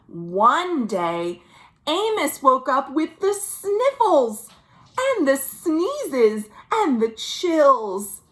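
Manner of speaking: put-on lively read-aloud for children; storybook reading. A narrator's reading. Storyteller reading a picture book to children at virtual story time, lively read-aloud. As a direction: tell it to a room of little kids.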